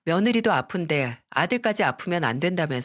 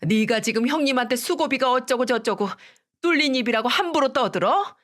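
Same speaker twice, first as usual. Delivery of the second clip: thundering scolding; 6 semitones higher than usual. A narrator's reading. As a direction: let the mother-in-law roar at her. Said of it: "호통을 치셨죠".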